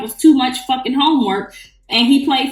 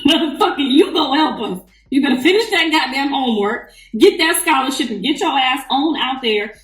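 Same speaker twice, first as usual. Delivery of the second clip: mock scolding; 4 semitones higher than usual. Scolding son over homework.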